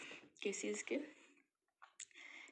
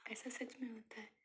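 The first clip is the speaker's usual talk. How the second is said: whispered, soft and earnest; a quiet whispered truth for the viewers; sincere whisper; 7 dB quieter than usual. Real, not acted. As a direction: breathe it as a truth. Sincere closing confession.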